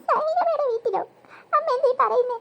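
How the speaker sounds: startled, high questioning; astonished child. Acted. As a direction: react in tearful disbelief. Child astonished at mother's news.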